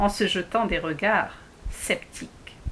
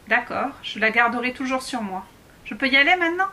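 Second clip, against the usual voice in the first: put-on eager girl; 4 semitones higher, 3 dB louder, faster than usual. Impatient Alice.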